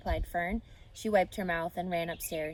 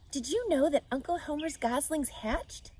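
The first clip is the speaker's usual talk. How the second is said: put-on bright, higher child voice; a little girl bursting with news; Fern's voice; 8 semitones higher than usual. Girl telling her parents at breakfast, eager.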